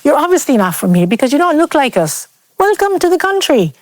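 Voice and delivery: high, mocking imitation of a condescending man; mock patronising man. Imitating the man at her new job, smug and patronising. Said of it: "he made it clear that".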